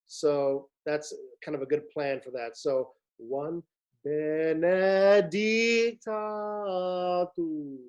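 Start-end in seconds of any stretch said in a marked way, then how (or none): 2.6-7.8 benedicta swelling into DIC then fading; crescendo into stress. Shown as a demonstration. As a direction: grow into the stressed syllable, then taper. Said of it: "slightly crescendo into them and diminuendo out".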